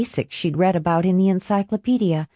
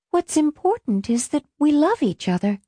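a gentle tender voice, pitched higher; 9 semitones higher than usual. A narrator's reading. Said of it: "swamped with tenderness".

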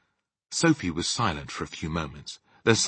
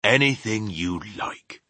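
slow, higher rustic giant boast; proud; 5 semitones higher, 3 dB louder, slower than usual. Acted. Giant boasting of his dream skill, proud. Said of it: "the B F G said proudly".

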